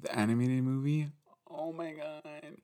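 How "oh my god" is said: high, soft, slow swoon; dreamy whispered swoon; breathy awe. Real, not acted. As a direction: sigh it out in awe. Gushing about the movie.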